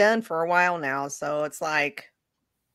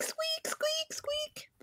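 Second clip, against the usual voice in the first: tiny squeak, much higher and softer; imitating a squeak; 12 dB quieter, much slower than usual. Mimicking the dog's scratching noise, tiny high squeak. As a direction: squeak it out like a small toy. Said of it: "all I can hear is squeak".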